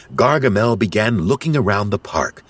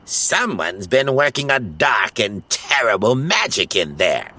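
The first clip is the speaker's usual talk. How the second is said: shivering; 5 semitones higher than usual. Acted. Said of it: "he said with a shiver".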